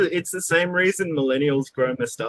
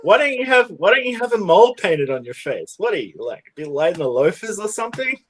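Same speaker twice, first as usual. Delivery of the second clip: mocking; 6 semitones higher, 5 dB louder than usual. Mocking people from back then.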